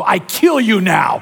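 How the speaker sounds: hammed-up killer line, drawn out; mock menacing executioner. Pastor jokes to church as a mock executioner. Argentine baptism joke, comic menace.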